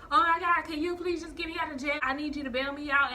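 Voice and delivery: retold desperate plea; mock pleading. Boyfriend begs to be bailed out.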